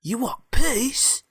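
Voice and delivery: very high, drawn-out robot voice; robot character. Acted. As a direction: squeal it slowly as an incredulous robot. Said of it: "And the robot goes".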